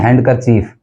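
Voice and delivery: हैंडकरचीफ with a sounded D; हैंडकरचीफ as HAND-ker-cheef; common mispronunciation. Shown as a demonstration. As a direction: pronounce the D in हैंडकरचीफ. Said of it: "हम इसको बोल देते हैं".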